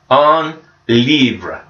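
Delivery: un livre with a French nasal un and a rolled R; French pronunciation. Shown as a demonstration. Teacher modelling French for pupils, un livre carefully pronounced. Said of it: "sounds like this".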